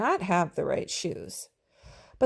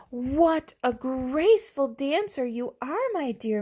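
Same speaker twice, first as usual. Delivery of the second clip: exclaiming; 6 semitones higher than usual. Acted. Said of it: "Madame Lucille exclaimed".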